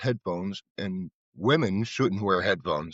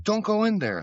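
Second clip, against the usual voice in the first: higher, pleading warning; nurse's much higher warning; 12 semitones higher than usual. Retold or imitated. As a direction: urge her to stay out. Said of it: "And she said".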